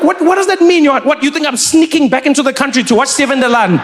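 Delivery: high, disbelieving questions; baffled, half-laughing disbelief; incredulous. Retold or imitated. Trevor baffled by the officer's claim, high and incredulous. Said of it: "I'm like".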